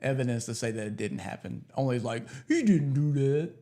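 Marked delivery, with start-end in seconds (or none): 2.5-3.5 drawn-out indignant denial, lightly put on; slow, stretched defensive whine in jest; mock protest. Mocking deniers of story.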